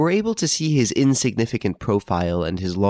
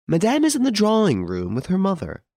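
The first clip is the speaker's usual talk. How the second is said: maid; 11 semitones higher than usual. A narrator's reading. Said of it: "said the maid who opened the door".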